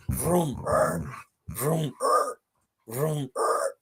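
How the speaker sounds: soft mock engine revs, vroom then a stall; revving engine noise. Joker acting a blonde at a red light, mock engine revs. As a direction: imitate a car revving at a light. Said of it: "What is this?".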